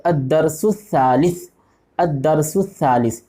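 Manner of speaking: الدرس الثالث read slowly, each sound clear; slow careful Arabic. Shown as a demonstration. Teacher reads the lesson title slowly for pupils, careful and clear. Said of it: "یہاں پہ لکھا ہوا ہے".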